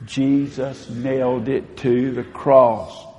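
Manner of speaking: slow, measured unison line; call-and-response affirmation. Shown as a demonstration. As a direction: lead the room through it slowly. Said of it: "remember to say this with me".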